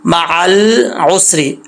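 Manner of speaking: मअल उसरी slowly, l held without an added vowel; no qalqala. Shown as a demonstration. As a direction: rest on the "ल" of मअल, then उसरी. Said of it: "लाम में भी कलकला नहीं करना". (मअल में लाम बिना कलकला)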